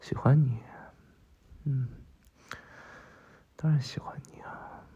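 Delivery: murmured sweet talk; tender reassurance. Acted. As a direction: reassure a sweetheart gently, with pauses. Reassuring someone they are liked.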